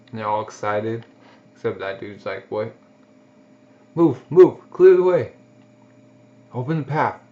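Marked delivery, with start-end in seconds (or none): 3.9-7.2 loud, high barked commands; shouting orders. Acted. Soldier clearing a path for the wounded, loud shouted orders. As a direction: clear the crowd with a big shout.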